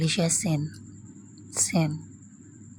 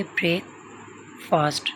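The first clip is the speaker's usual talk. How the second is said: ब्रेक, a clear gap, then fast falling; pause between words; 3 dB quieter than usual. Shown as a demonstration. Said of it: "थोड़ा space दे".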